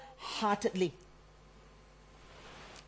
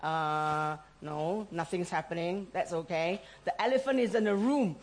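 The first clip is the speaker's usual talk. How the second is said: passive person; 3 semitones lower than usual. Retold or imitated. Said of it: "some people will go passive, like".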